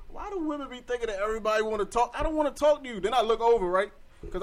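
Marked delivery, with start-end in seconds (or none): 0.1-3.0 exasperated rant. Real, not acted. Ranting about the doorway lady.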